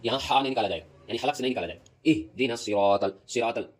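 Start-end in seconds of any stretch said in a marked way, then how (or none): 2.1-3.2 slow "اہدنا الصراط" with a thick ص and rounded vowel; heavy ص. Shown as a demonstration. Teacher models the correct form, heavy ص. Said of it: "سین کو تھوڑا موٹا کر کے". 3.3-3.7 "صراط ال" with a light س, clear aa vowel; thin the ص of "صراط" into an ordinary s; thin seen. Shown as a demonstration. Teacher shows the form to avoid, thin seen. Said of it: "یہاں سین نہیں پڑھا جائے گا".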